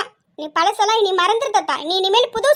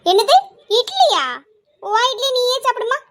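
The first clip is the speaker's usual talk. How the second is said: displeased surprise; 4 semitones higher than usual. Acted. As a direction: pitch leaping up in disbelief. Daughter balks at idli for breakfast. (அதிருப்தியான ஆச்சரியம்)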